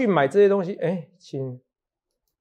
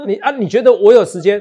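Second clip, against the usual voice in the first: incredulous; 4 semitones higher, 6 dB louder than usual. Real, not acted. Teasing a cohost about training.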